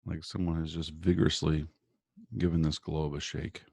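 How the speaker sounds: calm, measured guiding voice with long pauses; guided meditation. Real, not acted. Guest doctor leading listeners through morning breathing and visualization, guided meditation.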